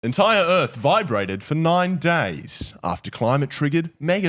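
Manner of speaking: slow, formal news read; newsreader voice. Shown as a demonstration. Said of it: "I'll do my newsreader voice".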